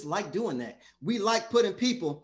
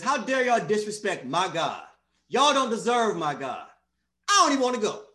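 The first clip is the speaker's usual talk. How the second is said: mock-indignant protest, rising louder on the last line; angry Jonah; 4 dB louder than usual. Preacher voicing Jonah mad at Nineveh, indignant. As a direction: act out a prophet's outrage. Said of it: "Jonah was mad at them".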